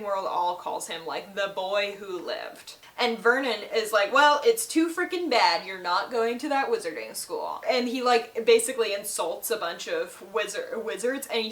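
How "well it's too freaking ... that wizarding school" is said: mock angry uncle. Vernon refusing the wizard, a hammed-up angry shout. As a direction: bark it like a stubborn uncle forbidding school.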